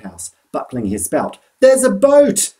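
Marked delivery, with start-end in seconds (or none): 1.6-2.5 high, loud excited shout; excited cry. A narrator's reading. Boy spotting a rescue boat, shouting high and loud. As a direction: yell it as you spot the boat. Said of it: "I cried".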